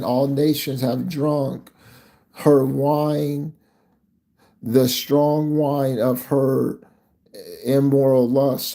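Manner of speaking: slow, measured reading from Revelation; scripture reading. Acted. Preacher reads Revelation to his listeners, slow scripture reading. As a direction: read the verse out deliberately, word by word.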